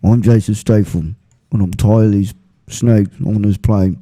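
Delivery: deadpan parody of a fed-up action hero; Statham on a snake plane. Retold or imitated. Friend jokes Statham is tired of snakes on a plane, light mock accent. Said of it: "here's Jason Statham if he was on a plane with a bunch of snakes".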